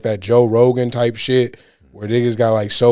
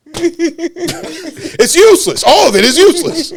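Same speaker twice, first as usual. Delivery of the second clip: mock producer; 13 semitones higher than usual. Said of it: "he was like".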